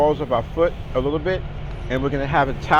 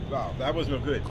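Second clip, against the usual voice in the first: winded after the breathing drill; gasping a little after holding the hiss; 4 semitones lower, 8 dB quieter than usual. Real, not acted. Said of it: "I guess maybe I'm out of breath".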